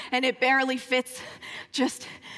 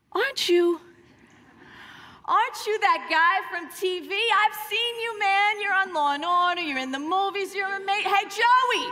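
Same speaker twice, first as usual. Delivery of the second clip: excited fan; 6 semitones higher than usual. Retold or imitated. Stranger recognizing Josh from TV.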